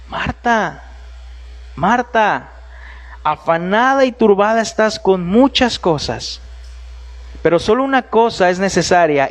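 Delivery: a loving correction, like a father; a hint of tender reproach; tender Jesus. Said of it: "fue tierna y cariñosa".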